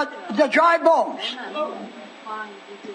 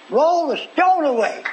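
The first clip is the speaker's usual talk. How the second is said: slow, raised-pitch order; measured command; 4 semitones higher, slower than usual. Acted. Jesus at Lazarus's tomb, measured command. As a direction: give the order slowly, pitched up.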